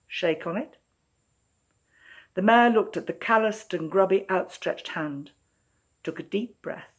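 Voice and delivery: measured storytelling voice, unhurried and clear; story narration. A narrator's reading. Author reading her own story to listeners, in a storytelling voice. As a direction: draw listeners into a fairytale set in Melbourne.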